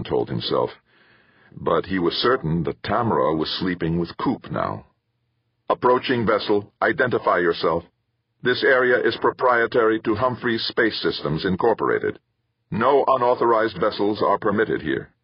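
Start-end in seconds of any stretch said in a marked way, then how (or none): 5.7-15.1 raised synthesized computer voice. Acted. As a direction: read it like an automated hail. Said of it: "sounded like a computerized synthesizer".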